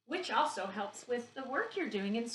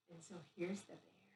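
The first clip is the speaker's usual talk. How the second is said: soft whispered reveal; secretive whisper; 4 semitones lower, 11 dB quieter than usual. Acted. Reveals the bear picture.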